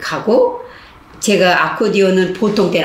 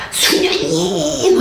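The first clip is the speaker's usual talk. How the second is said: high, slow drawn-out cry of her name; sobbing cry; 10 semitones higher, much slower than usual. Retold or imitated. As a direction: call out her name, choking up. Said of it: "흐느껴 울어". (흐느끼며 수녀님을 부르는 목소리)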